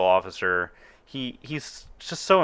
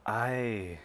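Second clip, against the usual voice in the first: imposing Imperial officer; 2 semitones higher, 7 dB quieter than usual. Acted. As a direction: speak down from seven feet tall, unhurried. Officer speaks.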